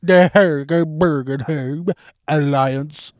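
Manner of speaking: slow mock-pompous drawl; mimicking the professor. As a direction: draw it out grandly. Imitating the professor.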